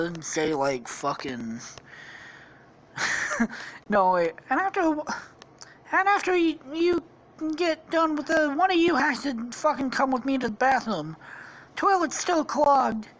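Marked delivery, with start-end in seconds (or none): 3.9-13.1 high falsetto princess orders; Princess Peach, bossy. Acted. Princess demanding a guard's service, high falsetto. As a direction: put on a high, imperious princess voice.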